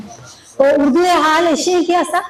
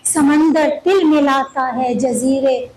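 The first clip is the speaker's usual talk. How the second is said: ghazal recitation. Acted. Poet presenting an old Urdu ghazal to listeners, measured recitation. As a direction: recite each couplet deliberately, pausing between phrases.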